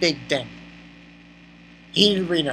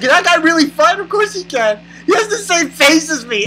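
higher-pitched voice imitating her; quoted girl; 7 semitones higher than usual. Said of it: "she was like".

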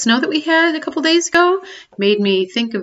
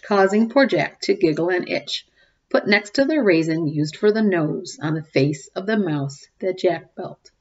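story reading; 3 dB louder than usual. A narrator's reading. Reading a cumulative rhyme to the kids, sing-song. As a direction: read it like a bedtime picture book. Reads picture book aloud.

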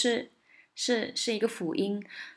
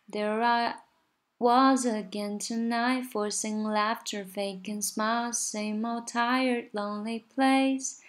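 sung slowly, each line lifting onto "laughter", "smiles", "tired", "place"; stress at line ends; 2 semitones higher, slower than usual. Shown as a demonstration. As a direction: lean into the last word of every line. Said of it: "第二个就是重音".

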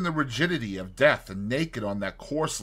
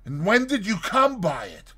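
louder, agitated questions; crying out; 5 semitones higher, 5 dB louder than usual. Acted. Fetz demanding where the body came from: loud alarmed questioning. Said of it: "cried the other".

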